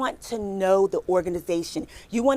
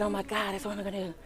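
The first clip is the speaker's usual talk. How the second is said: murmured under the breath; hushed; 12 dB quieter, faster than usual. Retold or imitated. Recruiter retelling a sneaky plan, quiet whisper. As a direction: whisper the secret plan to yourself.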